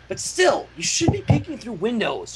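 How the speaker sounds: a hint of a stern older sister; stern pony voice. Rainbow Dash scolding the fillies with a touch of sternness. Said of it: "she asked sternly".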